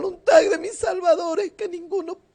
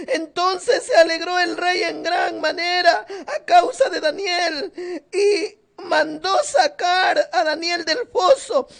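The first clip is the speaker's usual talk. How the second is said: ordinary delivery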